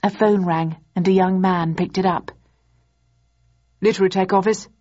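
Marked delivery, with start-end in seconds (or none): 3.8-4.7 polite. A narrator's reading. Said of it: "he said in a polite voice".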